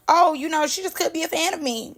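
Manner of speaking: mock innocent remark. Host mimics the version she denies, high and innocent. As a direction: toss it out high, as if harmless. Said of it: "you was not saying like".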